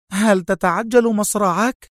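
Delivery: slow, high, sharp question. A narrator's reading. Sonia threatening her prisoner Adham, sharply. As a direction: challenge him sharply, pitched high. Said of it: "صاحت سونيا في حدة".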